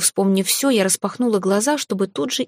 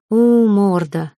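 slow, louder grumble; grumbling; 4 dB louder, much slower than usual. Acted. Heroine grumbles at the dragon over her torn shirt, slow and louder. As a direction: growl it out slowly, annoyed. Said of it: "проворчала я".

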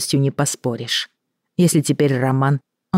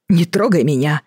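indignant. Acted. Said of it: "возмутился Роман".

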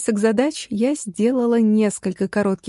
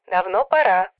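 sister chiming in by phone; quick-to-agree phone voice; eager agreement. A narrator's reading. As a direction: chime in through a telephone line. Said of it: "подхватила сестра".

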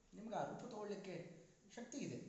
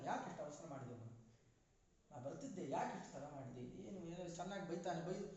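son scolding mother. Retold or imitated.

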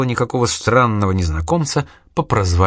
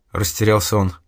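ordinary delivery, nothing marked

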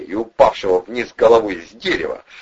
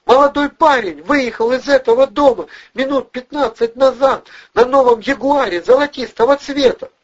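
falsetto yelling; 6 dB louder than usual. A narrator's reading. Furious blonde berating Valeriy and Vovchik, high falsetto screaming. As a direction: scream insults in a shrill woman's falsetto. Blonde explains, still shrill.

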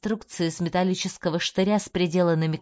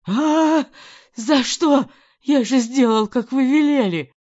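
high, loud desperate wail; pained scream; 7 semitones higher, 8 dB louder, slower than usual. A narrator's reading. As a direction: scream out in pain, much higher and louder. Dronov in pain screams.

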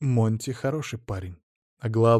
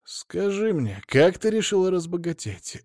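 pleading; 7 semitones higher than usual. Acted. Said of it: "взмолился Лопухин".

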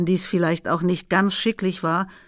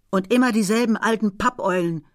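calling back. Acted. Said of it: "rief sie zurück".

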